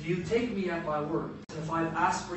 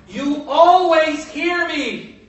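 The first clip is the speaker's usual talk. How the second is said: "always" drawn out slow and much louder; stress on always; 8 semitones higher, 13 dB louder, much slower than usual. Acted. Preacher insisting Jesus knows he is always heard, "always" stressed loud and slow. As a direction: lean hard into "always", slowly.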